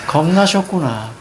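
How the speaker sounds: scoffing, smirking read; lightly mocking realization; unsympathetic smirk. Shown as a demonstration. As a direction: say it as a knowing jab, no comfort in it. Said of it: "이렇게 하면 안 돼".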